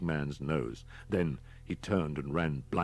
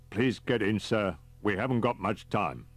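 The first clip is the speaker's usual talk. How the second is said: higher, lightly metallic voice; strange metallic voice; 3 semitones higher than usual. Acted. Masked driver urging the fugitive aboard, strange metallic voice. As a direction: sound like a voice through a mask. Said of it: "A strange metallic voice said".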